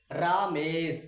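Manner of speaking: रामेश with the रा lengthened and weighted; रामेश, long रा in a slightly heavier voice; long heavy रा. Shown as a demonstration. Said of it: "हल्का भारी आवाज में पढ़ना".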